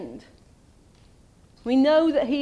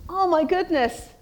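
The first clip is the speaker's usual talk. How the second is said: hammed-up panic, higher and louder in bursts; modern panicked Isaiah; 3 semitones higher, 4 dB louder than usual. Preacher voicing a modern Isaiah panicking before God, mock panic. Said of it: "we would say".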